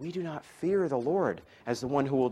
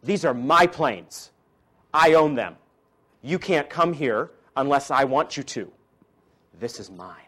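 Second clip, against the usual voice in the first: lion's claim; 4 dB louder than usual. Retold or imitated. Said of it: "He's saying".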